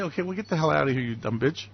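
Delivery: low, quick, offhand contempt; dismissive boss. Acted. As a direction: dismiss the fawning supporter curtly, dropping low. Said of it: "That's his attitude".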